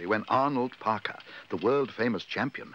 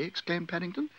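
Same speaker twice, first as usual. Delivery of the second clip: usual speaking voice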